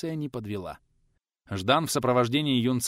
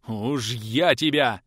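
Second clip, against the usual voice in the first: slow, louder menace; gruff teacher about to strike; threatening growl; 5 dB louder, much slower than usual. Acted. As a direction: drag out the threat. Teacher raises hand to strike.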